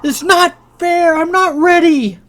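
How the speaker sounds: high, loud, anguished wailing; Lily protesting she is not ready; distraught protest. A narrator's reading. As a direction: stamp and wail like it's unjust. Lily's tantrum at being called.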